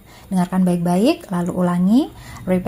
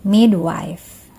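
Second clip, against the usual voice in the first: careful, emphatic single-word model for repeating; pronunciation model; 3 dB louder than usual. Shown as a demonstration. Teacher models a word for students to repeat, carefully articulated. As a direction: say it clearly for learners to copy. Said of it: "Sekali lagi".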